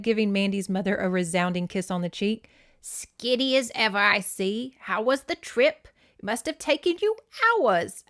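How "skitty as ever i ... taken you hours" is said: chatty British great-aunt; bad British accent. Great aunt asking arriving family about the trip, bad British accent. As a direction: fuss over guests in a hammed-up British accent. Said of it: "Dick Van Dyke's British accent in Mary Poppins".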